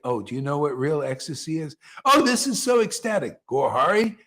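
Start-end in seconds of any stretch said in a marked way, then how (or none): 2.0-3.4 high, gushing fake rapture; mock blissful gushing. Mocking devotees who gush about bliss, high sugary voice. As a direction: ham up shallow bliss. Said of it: "how many Vaishnavas say".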